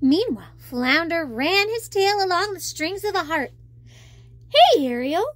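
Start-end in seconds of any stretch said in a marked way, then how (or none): 4.5-5.3 exclaiming. Acted. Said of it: "he exclaimed".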